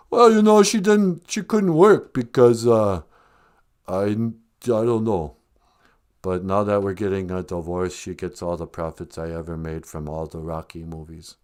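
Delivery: lightly voiced boxer, trailing down; Sylvester Stallone. Film star explaining the divorce payout, lightly impersonated and halting.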